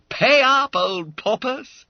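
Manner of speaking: high, loud, drawn-out call; hearty demand. Acted. Schoolmate to the stalling fat boy, demanding. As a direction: press him loudly to pay.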